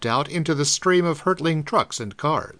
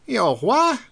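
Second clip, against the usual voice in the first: 1 startled; 8 semitones higher than usual. A narrator's reading. Druggist startled.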